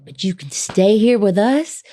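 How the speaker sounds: whispered reassurance; granddaddy leveling. Retold or imitated. Grandfather to stranded travelers, whispering. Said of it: "He's like".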